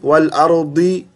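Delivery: अर्दी with a plain "di"; wrong "di" in अर्दी; wrong reading. Shown as a demonstration. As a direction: say अर्दी with a dental d. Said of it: "दी भी नहीं".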